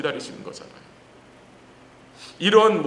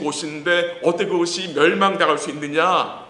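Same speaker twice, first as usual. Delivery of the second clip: acted complaint, a little raised in force; lamenting protest to God; 2 semitones higher, 4 dB louder than usual. Exiles protesting to God over fallen Zion, lamenting. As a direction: voice the people's indignant lament, pressing on forcefully. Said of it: "하나님께 탄식하는 거예요".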